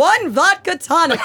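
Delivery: slow, high, projected order like a stage actor; theater-kid order. Retold or imitated. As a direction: deliver it like a theater kid at the bar. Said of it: "that is how theater people order drinks".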